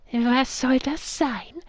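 puzzled whisper. Acted. Character reacts to monster.

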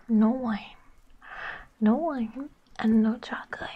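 firm voiced no to a puppy; voiced scold of a naughty puppy. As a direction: drop the whisper and scold.

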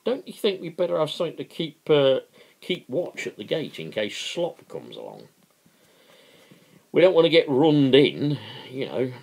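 high, fast, worried suggestion; apprehensive. Acted. Philpot urging the men to keep watch, anxious. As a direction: fret about being caught. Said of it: "interrupted Philpot apprehensively".

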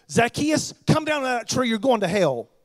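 loud stern call, scolding from below the tree; harsh condemning call. Shown as a demonstration. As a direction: bark it out like a harsh preacher condemning him. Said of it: "Not a-, not at all".

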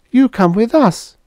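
mild wheedling. Acted. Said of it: "Clara suggested wheedlingly".

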